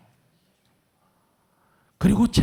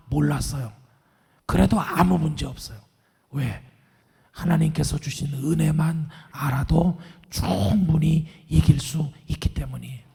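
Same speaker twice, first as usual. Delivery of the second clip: ordinary talk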